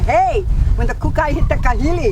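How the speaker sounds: loud, high imitation of encouraging friends; retold pep talk. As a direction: loudly cheer her on, acting out supportive friends. Acts out supportive women's pep talk.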